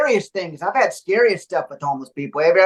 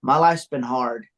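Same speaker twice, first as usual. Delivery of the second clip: slow, low, pleading homeless man; mock sob story; 7 semitones lower than usual. Homeless man begging guard to stay, slow low plea. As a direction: drag it out like a sad plea. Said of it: "an award-winning speech".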